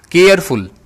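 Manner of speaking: केयरफुल in two parts, केयर then फुल; split syllables. Shown as a demonstration. Teacher demonstrating mouth openings, केयरफुल split before फुल. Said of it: "केयर अलग बोलना पड़ता है".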